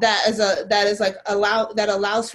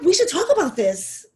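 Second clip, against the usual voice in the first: mock earnest; 7 semitones higher, 5 dB louder than usual. Mocking people's sudden earnest concern.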